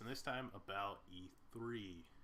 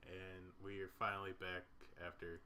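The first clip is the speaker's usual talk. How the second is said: YouTuber voice; 3 semitones lower than usual. Pretend. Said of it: "Put your YouTuber voice on".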